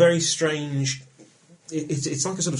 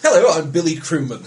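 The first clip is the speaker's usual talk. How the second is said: laughing; 4 semitones higher, 9 dB louder than usual. Acted. Introducing himself as a crewman.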